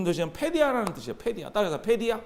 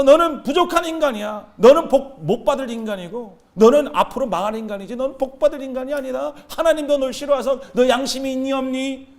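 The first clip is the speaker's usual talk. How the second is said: Satan; 3 semitones higher, 4 dB louder than usual. Acted. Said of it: "사단이 너에게 와서".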